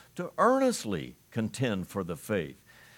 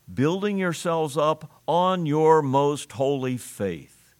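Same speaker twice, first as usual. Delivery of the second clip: emphatic reading; 3 semitones higher, 5 dB louder, slower than usual. Acted.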